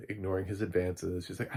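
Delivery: usual speaking voice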